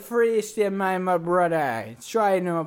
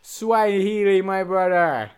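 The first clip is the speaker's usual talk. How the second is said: put-on Jamaican accent. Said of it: "Jamaican cruise".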